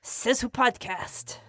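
put-on French accent; halting mock French host voice. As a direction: read the sponsor in fake French. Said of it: "for that French accent".

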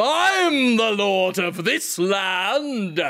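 slow, grand declaration; pompous lord voice. Pretend. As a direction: proclaim it like a lord. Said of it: "and you go".

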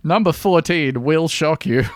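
slow, teasing clickbait read; clickbait video narrator. Pretend. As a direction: tease the headline with a laugh. Parody of a clickbait headline.

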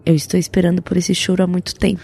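a hint of a gentle therapist; quoting the therapist. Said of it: "sabe o que meu terapeuta falou".

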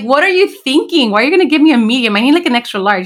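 high, fast exasperated disbelief; quick, high, can't-believe-it complaint; incredulous protest. Retold or imitated. Retold protest about shirt size.

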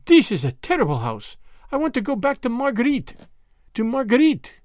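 put-on high girlish cry to carry downstairs; girl's high, projected plea. A narrator's reading. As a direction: call out insistently, rising high. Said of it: "And then, louder still".

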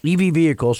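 chewing a gummy bear; mouth full. Real, not acted. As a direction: talk around a mouthful. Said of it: "Sorry, I'm eating a gummy bear".

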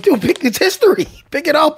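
imitating friend. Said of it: "you're like".

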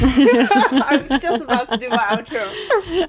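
laughing through the words; trying not to laugh; stifled giggles. Real, not acted. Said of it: "Keep, keep a straight face".

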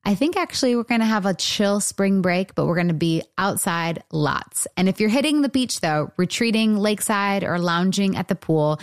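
upbeat sponsor read. Acted. Podcast host reading a store sponsor spot, upbeat ad read. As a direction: sell it like a friendly host ad.

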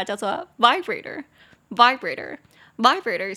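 "vibrator" said slowly and clearly, stress on VI; slow model pronunciation. Shown as a demonstration. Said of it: "按摩器我觉得我们可以学一下".

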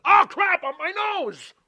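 high, loud hammed-up yelp of shock; mock yelp. Host mocking a bleeding wrestler with a hammed-up high yelp. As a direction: squeal it like a wrestler gushing blood.

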